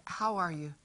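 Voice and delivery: softly asking "How are you?"; whispered. Retold or imitated. Mother quietly asking her daughter before field day. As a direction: lean in and ask quietly. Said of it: "and I whispered".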